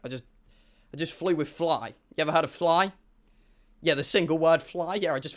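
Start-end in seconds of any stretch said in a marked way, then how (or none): 0.0-2.9 softer, sheepish mumble; a touch of embarrassed quiet; sheepish apology. Retold or imitated. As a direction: apologise meekly, on edge. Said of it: "I go".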